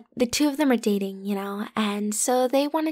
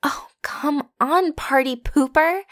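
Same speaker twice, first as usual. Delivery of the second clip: teasing; 4 semitones higher, slower than usual. Acted. Teasing reluctant roommate.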